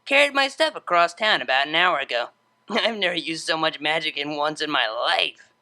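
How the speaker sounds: winded, chuckling through it; tired from hauling boxes, out of breath; breathless. Acted. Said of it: "a slightly breathless chuckle".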